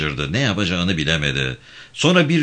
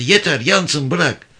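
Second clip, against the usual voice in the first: high, loud pleading yell; desperate shout; 9 semitones higher, 3 dB louder, slower than usual. Acted. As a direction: cry out to stop her going back in. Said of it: "diye bağırdı". (yüksek, çaresiz bir bağırış)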